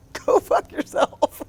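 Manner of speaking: slow, high, breathy sneer; mock dismissive ex. Mocking her ex's reply. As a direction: drag it out with contempt. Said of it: "And his response".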